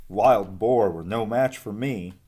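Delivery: boastful and loud; bragging. Acted. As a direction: brag about it proudly. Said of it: "Umbles bragged".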